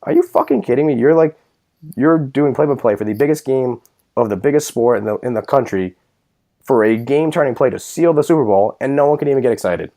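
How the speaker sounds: high, disbelieving outburst at the announcer; incredulous. Retold or imitated. Fan yelling at the TV announcer, high and disbelieving. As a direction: let it jump up high in disbelief. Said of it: "I'm just like".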